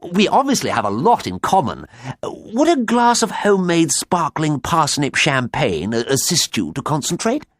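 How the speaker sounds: high, loud, overeager suitor; lovestruck eagerness. A narrator's reading. Smitten farmer offers his caller champagne, high and eager. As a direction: gush the invitation, pitched high.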